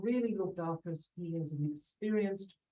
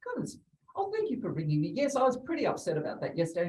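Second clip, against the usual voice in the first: higher, bright sing-song phone greeting; mock-cheery client voice; friendly client on the phone; 6 semitones higher, faster than usual. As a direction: gush like a relieved client answering. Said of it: "they go".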